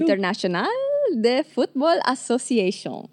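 a light attempt at a French accent. Shown as a demonstration. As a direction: say it like a French speaker, half-joking. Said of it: "My French accent is the worst".

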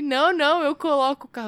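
husband insisting he is fine to drive; drunk husband voice. Retold or imitated. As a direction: play the stubborn drunk husband brushing her off. Wife retells drunk husband's refusals.

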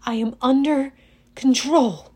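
ordinary delivery, nothing marked

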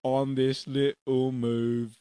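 slow, loud, chanting character voice; drawn-out silly chimney-sweep; Bert. Acted. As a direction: stretch each word out hammily. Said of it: "My name is Bert".

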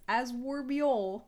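slow put-on British "As will be all"; lightly put-on British; different British accent. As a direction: try "As will be all" in another regional accent. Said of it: "let me just switch up accents".

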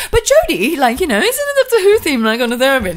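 high, eager retelling voice; high quoting voice. Retold or imitated. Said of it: "and it's like".

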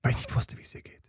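whispered, almost voiceless; hushed confession. Real, not acted. Man admitting he didn't know about his girlfriend, whispered. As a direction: let it sink into a bare whisper.

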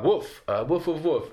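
lightly voiced human woofs; dog imitation. Hiding Englishman fools the soldiers, half-hearted dog imitation. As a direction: bark it haltingly, pretending to be a dog. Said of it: "it's just a dog".

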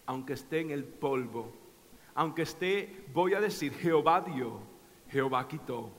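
low, hushed and reverent; humble vow. Retold or imitated. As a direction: speak it from the dust, softly. Job's humble vow of faith.

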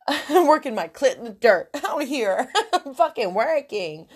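laughing through the line. Real, not acted. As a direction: giggle while saying it. Laughs at her own joke.

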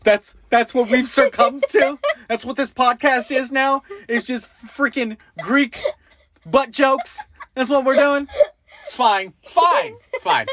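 high, loud playful incredulity; mock outrage. Co-host bemoans the podcast sinking to butt jokes, mock outrage. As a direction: protest in a high, laughing squeal.

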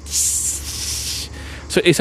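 hissing insect buzz, unvoiced and soft; cicada buzz imitation. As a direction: mimic the cicadas' white-noise hiss. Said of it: "they do that sound, that".

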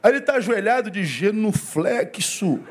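ordinary talk, nothing marked

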